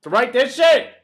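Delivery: high, loud gush of excitement; a squeal of pure fan delight; excited outburst. Real, not acted. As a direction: blurt it out, overjoyed. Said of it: "I need to calm down".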